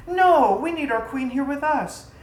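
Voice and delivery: lightly voiced wives pleading with their queen.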